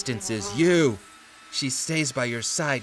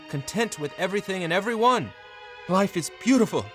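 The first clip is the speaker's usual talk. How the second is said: blissful narration; 8 semitones higher, faster than usual. A narrator's reading. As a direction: pitch soaring with happiness. Narrator voices the husband's bliss.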